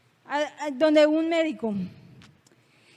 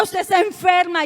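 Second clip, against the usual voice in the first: bruja acusadora; 2 semitones higher, 6 dB louder than usual. Retold or imitated. Imita a la bruja que insiste.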